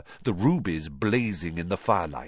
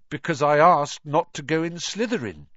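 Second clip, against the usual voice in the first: ordinary delivery, nothing marked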